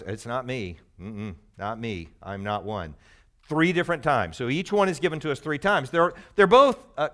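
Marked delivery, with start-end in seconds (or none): 0.0-2.9 1 mock hushed denial. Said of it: "aren't you one who knows".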